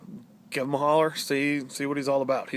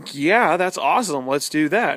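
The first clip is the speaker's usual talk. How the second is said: loud, excited agreement; mock excited agreement; loud excitement; 3 semitones higher, 7 dB louder than usual. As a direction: belt out an eager yes. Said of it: "And I'm like".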